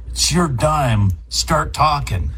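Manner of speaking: slow, mock-unfriendly pickup; gruff phone answer. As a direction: parody a discourteous phone greeting, drawn out. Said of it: "It's like".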